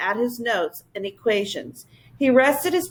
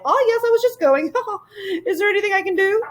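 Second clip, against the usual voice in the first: high, quick, fluttery creature voice; a giddy little royal creature; Whangdoodle voice; 11 semitones higher, faster than usual. Acted.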